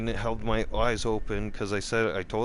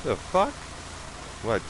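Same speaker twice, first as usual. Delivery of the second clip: indignant disbelief; 5 semitones higher than usual. Real, not acted. Indignant outburst.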